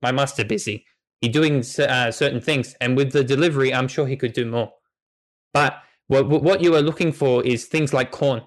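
lightly voiced eager talking dog; a hint of an eager dog pleading for help; dog NPC Gray. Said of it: "looks at you and says".

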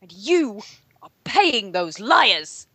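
sit up straight and recite it with bitter outrage; rigid-shouldered resentment. Retold or imitated. Cohost reading an angry movie review, stiff and resentful. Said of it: "rigid-shouldered resentment".

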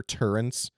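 "turrets" said TUR-ents, with an added N; mispronunciation with N. Retold or imitated. Quoting Overwatch players' mistake, "turrets" with an extra N. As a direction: slip an N into "turrets" before the t. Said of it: "where are you getting that N from".

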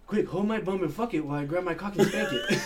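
speech impediment voice. Retold or imitated. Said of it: "guy with a speech impediment".

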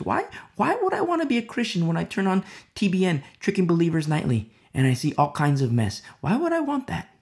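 scoffing non-believer. Retold or imitated. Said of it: "I've had these conversations with the non-believers".

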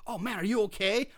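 imitating earnest concern, lightly; mock-earnest check on someone; sincere concern. Puncher checking on his victim, sincerely concerned. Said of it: "He's, he's seriously like".

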